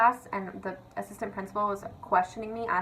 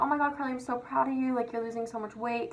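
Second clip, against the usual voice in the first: higher-pitched mock congratulations; imitated gushing praise; 5 semitones higher than usual. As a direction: gush like an impressed acquaintance.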